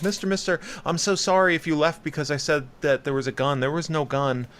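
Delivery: lightly voiced girl apologizing; little girl voice. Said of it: "it's like".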